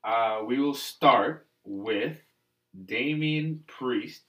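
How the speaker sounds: slow, halting read like a substitute teacher; flustered substitute teacher. Real, not acted. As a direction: stumble through it like reading a class list. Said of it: "Why do you read it like a substitute teacher reading kids' names?".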